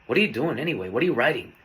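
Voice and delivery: imitated resentful questioning; mildly resentful, falling questions. Girlfriend questioning him as he writes, resentful. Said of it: "she spoke to me with resentment".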